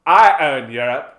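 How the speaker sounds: loud, slow, hammed-up territorial threat; scornful mock dismissal; possessive United States. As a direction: punch each phrase like a jealous bully. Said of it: "the United States just like".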